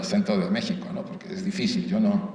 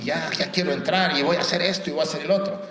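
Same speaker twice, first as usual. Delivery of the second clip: eager newcomer, pitched up; a touch of mock eagerness, higher voice; imitated enthusiasm; 5 semitones higher than usual. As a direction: mimic someone keen to jump right in. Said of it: "Cuando alguien está muy entusiasmado".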